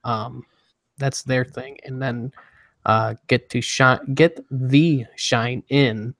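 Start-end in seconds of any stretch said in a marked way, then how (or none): 4.1-6.1 slow slogan. Shown as a demonstration. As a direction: get the shine in, slowly, word by word. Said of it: "That is Oral-B's".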